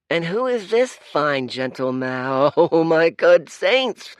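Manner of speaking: high, loud, laughing, slow gasp; a kid thrilled to spot the famous hero; excited urchin. Acted. Street urchin recognising Dorian, laughing and excited.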